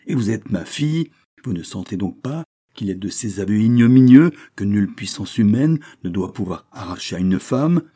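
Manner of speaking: loud reproach, building to high-pitched scorn; furious tirade. A narrator's reading. Countess shames her daughter for admitting a lover, furious. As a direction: rail at her in bitter outrage.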